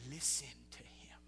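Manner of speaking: low, near-whispered instruction; hushed divine command. Acted. God tells the disciples to heed his son, hushed. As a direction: drop to a hush, as God commanding.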